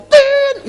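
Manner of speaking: very high, loud honked "tin"; imitated car horn. Preacher mimicking the husband's car horn, high honk.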